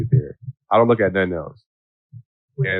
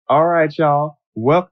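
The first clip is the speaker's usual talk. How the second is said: mock flight attendant's New Orleans accent, higher; put-on Louisiana accent; 5 semitones higher, much slower than usual. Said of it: "that lady gentrified the New Orleans accent, the, the Louisiana accent".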